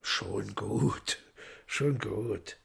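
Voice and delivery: hushed, calming whisper; soft reassuring whisper; soothing whisper. Acted. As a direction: whisper to settle her fear. Woland calms frightened Margarita.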